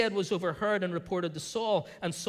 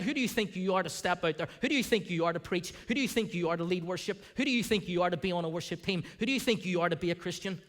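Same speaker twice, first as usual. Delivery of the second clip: mocking inner voice; faster than usual. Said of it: "there will be voices that will come against".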